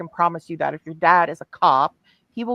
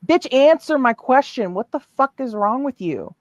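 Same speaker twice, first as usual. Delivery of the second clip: high, loud furious shout; furious demand; 6 semitones higher, 3 dB louder than usual. Real, not acted. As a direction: bark the demand at her.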